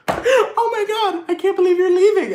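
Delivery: milk the fake goodbye; fake sad face. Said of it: "Put on your sad face".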